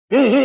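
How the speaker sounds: demonstrated nonsense "hee hee" noise; mock hee-hee, like an imitated giggle; meaningless hee-hee. Shown as a demonstration. Teacher showing students a sound without meaning, mock hee-hee. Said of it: "ही, ही कर रहा है".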